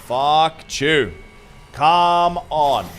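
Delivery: loud furious rage yell; angry shout. Real, not acted. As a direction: yell in rage after dying. Just died in game.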